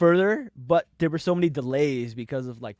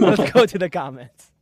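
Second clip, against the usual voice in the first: announcer voice; 4 semitones higher, 10 dB louder than usual. Acted. Echoes segue as announcer.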